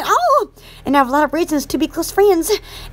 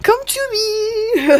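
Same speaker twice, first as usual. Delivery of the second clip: yell; 5 semitones higher, slower than usual. Real, not acted. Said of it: "Sometimes my fart comes to me if I yell".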